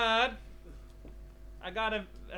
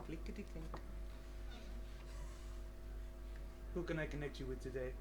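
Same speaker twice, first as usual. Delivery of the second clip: phone operator voice; 6 semitones lower, 12 dB quieter, faster than usual. Acted. Priest answers like phone operator.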